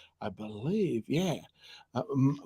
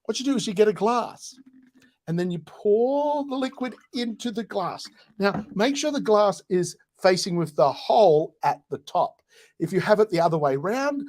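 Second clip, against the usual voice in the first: mock tutorial; 5 semitones higher than usual. Mock tutorial on using glass.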